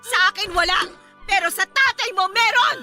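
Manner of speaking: crying, furious accusations; angry through tears; tearful rage. Acted. Mother attacking, tearful rage.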